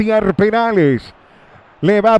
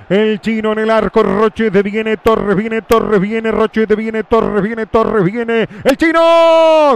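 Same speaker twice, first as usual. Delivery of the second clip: relato veloz que sube al final; breakneck goal commentary. Real, not acted. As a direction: acelera la tensión hasta el remate. Relato del penal rival. (relato de penal acelerado)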